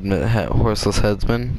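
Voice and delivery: tongue slip. Real, not acted. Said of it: "the headless horseman".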